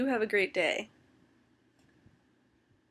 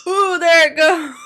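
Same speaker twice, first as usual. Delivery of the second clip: hiccup breaking into words; 5 semitones higher, 13 dB louder than usual. Real, not acted. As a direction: talk through sudden hiccups. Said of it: "I had hiccups".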